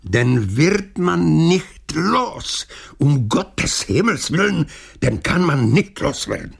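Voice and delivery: high, drawn-out exasperated groan. A narrator's reading. Councillors despairing over the persistent mayor, groaning. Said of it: "a sténali".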